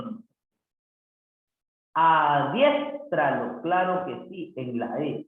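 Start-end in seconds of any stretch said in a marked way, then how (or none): 1.9-3.6 Adiéstralo slow, with a long stressed "diés"; sounded-out stress. Shown as a demonstration. Teacher showing where the accent goes, Adiéstralo slowly sounded out.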